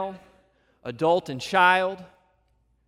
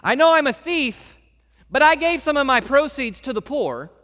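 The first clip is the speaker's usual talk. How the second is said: high, loud plea that lists good deeds; mock the thief who bargains for a place; bargaining mock plea; 8 semitones higher, 5 dB louder than usual. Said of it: "He doesn't say".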